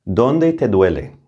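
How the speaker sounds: slow model question. Shown as a demonstration. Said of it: "Let's start with a basic question".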